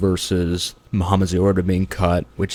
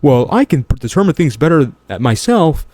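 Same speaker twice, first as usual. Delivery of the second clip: higher-pitched mock quote; imitating opponent; 6 semitones higher than usual. Host throwing his opponent's words back, higher mocking imitation. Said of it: "When he says himself".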